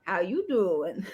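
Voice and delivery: lightly voiced cool-guy catchphrase; slow, softened attempt at a suave greeting; Fonzie. Retrying the catchphrase once ready, mild slow impression. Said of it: "Bring the Arthur Fonzarelli to you".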